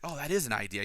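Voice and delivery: hushed, mildly awed retelling. Retold or imitated. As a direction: voice a touch of quiet wonder. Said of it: "says in an awed voice".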